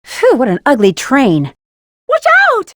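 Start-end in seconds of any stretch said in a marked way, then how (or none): 2.1-2.7 high, loud cry of warning; loud high warning yell; warning shout. Acted. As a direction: call it out sharply to the team. Warning teammates of danger.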